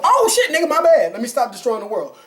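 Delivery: mock the son's sudden change of heart; mock sudden realization. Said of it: "And then go".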